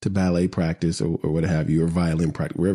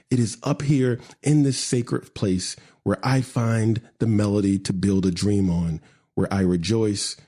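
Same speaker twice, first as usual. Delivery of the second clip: measured spoken-word recital; poem reading. Acted. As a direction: recite your own poem, phrase by phrase.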